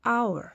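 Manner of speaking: "owl" for hour, starting straight on the vowel; hour said as "owl", H dropped; silent H. Shown as a demonstration. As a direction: repeat "owl" with no H at all. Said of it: "묵음이 되는 거예요".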